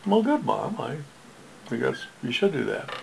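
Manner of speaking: son's voice pitched well up, cheerful. Retold or imitated. He voices the son.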